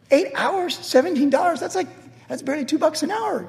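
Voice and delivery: high, soft self-pitying whine; mock complaining. Pastor imitating himself sulking about tips, whiny. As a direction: grumble it like a hard-done-by kid. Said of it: "and I was complaining".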